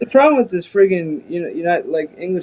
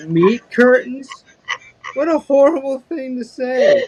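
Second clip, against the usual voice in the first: shocked disgust; 9 semitones higher, 3 dB louder than usual. Retold or imitated. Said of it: "I was like".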